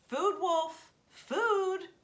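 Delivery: high, loud eager cry; excited call. A narrator's reading. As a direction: call the wolf to the food. Raven calls the wolf to food.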